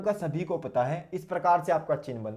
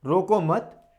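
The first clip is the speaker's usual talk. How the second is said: रोको मत as one louder unit; मत joined to रोको; 3 semitones higher, 5 dB louder, slower than usual. Shown as a demonstration. Teacher placing the comma later, grouping रोको मत together. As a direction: run रोको straight into मत, firmly. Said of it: "और आपने लगाया अल्प विराम".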